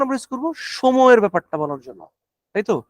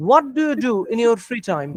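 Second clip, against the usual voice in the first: examiner voice; 2 semitones higher, much slower than usual. Shown as a demonstration. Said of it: "examiner question demo".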